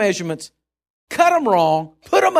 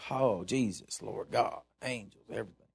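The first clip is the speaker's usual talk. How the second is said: mock fervent prayer; 9 semitones lower, 13 dB quieter than usual. Retold fervent biker prayer.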